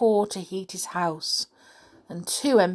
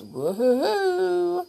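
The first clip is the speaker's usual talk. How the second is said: cheer; 10 semitones higher than usual. Real, not acted. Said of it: "reader cheers".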